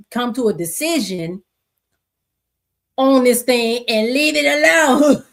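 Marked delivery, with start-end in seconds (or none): 3.0-5.2 laughing exasperation. Real, not acted. Laughing exasperated at the endless debate.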